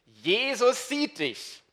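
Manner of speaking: high, very slow eerie parrot voice. Acted. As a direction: drag it out high like a spooky talking bird. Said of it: "wieder diese Stimme". (hohe, sehr langsame Papageienstimme)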